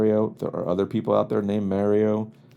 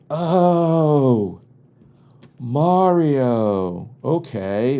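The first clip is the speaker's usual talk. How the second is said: higher, louder, bright "Mario" said as "Mah-rio"; imitating barista; 5 semitones higher, 4 dB louder, much slower than usual. Barista finally catching the name, mock higher "Oh, Mario". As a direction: play the barista finally getting it, but wrongly. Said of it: "And they go".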